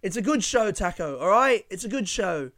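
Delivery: pleading with a grumpy comic; imitating the host. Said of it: "she's like".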